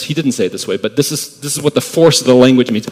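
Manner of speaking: ordinary delivery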